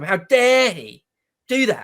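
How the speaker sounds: sincere outrage. Real, not acted. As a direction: lean on dare, dead serious. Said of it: "But I mean it absolutely and literally this time".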